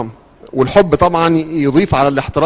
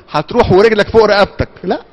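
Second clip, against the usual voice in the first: higher, firm mock command; stern parent order; 5 semitones higher than usual. Father forcing his son to school, mock stern. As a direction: lay down the law to the kid.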